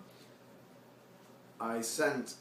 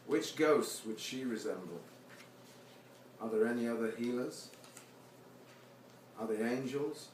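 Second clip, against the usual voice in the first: poetry reading; 3 dB quieter than usual. Acted. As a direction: let each line hang, then fade out. Reads his poem aloud.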